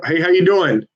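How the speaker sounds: upbeat telemarketer hello; phone greeting. Real, not acted. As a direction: greet the stranger cheerfully. Cold-call greeting on the phone.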